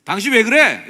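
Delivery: high, explosive accusing shout; loud reproach. Shown as a demonstration. Preacher shows congregation what not to say, shouted reproach. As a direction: burst out at them in blame. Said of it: "이렇게 하지 마시고".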